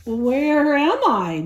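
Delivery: mild slow groggy grumble; grumbled groggily. Acted. Ned waking in a strange bed, mildly groggy. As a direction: wake up confused and drowsy. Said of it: "Ned grumbled groggily".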